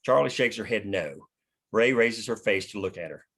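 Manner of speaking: normal talking voice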